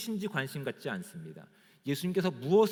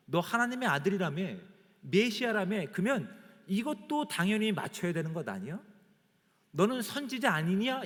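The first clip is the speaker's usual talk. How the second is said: mock jeering, pitched higher; mocking taunt; 5 semitones higher than usual. Preacher voices captors jeering at blindfolded Jesus, mocking. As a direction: imitate a taunting challenge, voice climbing. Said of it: "이런 조롱의 내용이".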